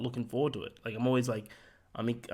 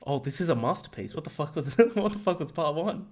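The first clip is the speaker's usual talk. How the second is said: mock critic; 4 semitones higher, 4 dB louder than usual. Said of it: "imagine ... comes out and it's like".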